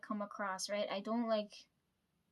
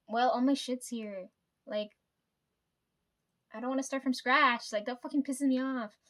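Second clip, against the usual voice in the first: retold angry outburst; 2 semitones higher, 6 dB louder than usual. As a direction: push it out hard, like you're fed up. Retelling her angry reply to therapist.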